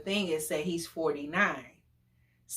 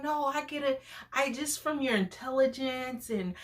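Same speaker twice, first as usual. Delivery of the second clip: put-on articulate older date; 5 semitones higher than usual. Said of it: "that's the way he talked".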